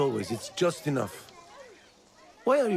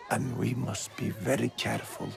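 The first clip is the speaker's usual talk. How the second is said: grave warning; 2 semitones lower, 6 dB quieter than usual. Acted. Grave warning about looming danger.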